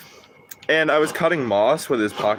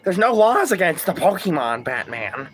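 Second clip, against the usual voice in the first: hint of Joker, higher, then dropping on Batman; 7 semitones higher than usual. Streamer voicing Joker arguing with Batman, a hint of Joker. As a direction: play it as a sly clown. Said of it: "in the Joker voice".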